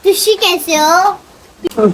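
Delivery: slow Punjabi-tinged Hindi, तुसी for आप; punjabi accent in hindi. Shown as a demonstration. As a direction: say तुसी कैसे हो slowly in Punjabi style. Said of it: "Punjabi में".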